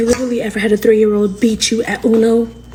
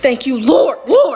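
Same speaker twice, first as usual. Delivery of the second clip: relieved exclamation; 3 semitones higher, slower than usual. Real, not acted. Thanking God after the scare.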